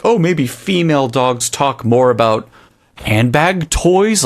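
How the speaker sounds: lightly mocking, high and drawn out at the end; a hint of a silly researcher; mock scientist voice. Mocking the scientists' study, lightly voiced researcher.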